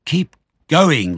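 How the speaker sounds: high, loud farmer's call; shouted order. A narrator's reading. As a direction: shout to spur the men on. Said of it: "the fat Boggis shouted".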